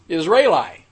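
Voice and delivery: Israeli said with a pointed stress on the final syllable lie; mock pronunciation. Shown as a demonstration. Speaker mocking the word for listeners, lie syllable stressed. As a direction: lean on the last syllable of Israeli so it sounds like lie. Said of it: "I emphasize the last syllable of that, being lie".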